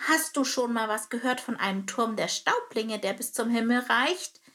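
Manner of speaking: a small bird probing for answers; curious sparrow. Acted. Sparrow asks about tower.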